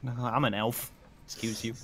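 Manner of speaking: normal talking voice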